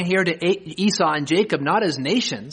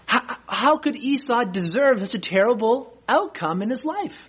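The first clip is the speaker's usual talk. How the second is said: rising higher, pleading objector; voicing imagined objections; 7 semitones higher than usual. Preacher voicing the congregation's indignant doubts, higher and pleading. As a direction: protest like a troubled listener who can't accept it. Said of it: "a flood of objections wells up in our minds".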